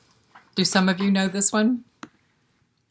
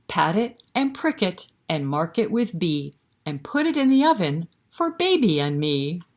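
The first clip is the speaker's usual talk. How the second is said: put-on sing-song rhyme read to little kids; lilting, rhythmic recitation for toddlers; nursery rhyme recital.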